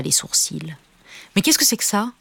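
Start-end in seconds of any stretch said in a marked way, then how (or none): 1.4-2.1 high-pitched, indignant scolding; cross mum laying down the law; angry mother. A narrator's reading. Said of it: "était vraiment très en colère".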